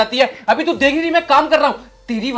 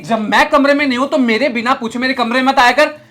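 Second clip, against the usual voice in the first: angry scolding; 3 semitones higher than usual. Acted. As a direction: bark at her as you walk in. Boss finds maid at laptop.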